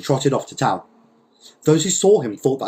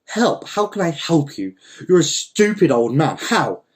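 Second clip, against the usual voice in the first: exasperated, raised-voice scolding; yelling; 5 semitones higher than usual. Acted. Don Lol at the old man in the jar, yelling. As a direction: scold him in higher, indignant bursts. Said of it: "yelled at the old man".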